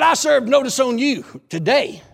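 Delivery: loud, declaring notice; stern proclamation. Retold or imitated. Preacher serving notice on the prison gate, loud and stern.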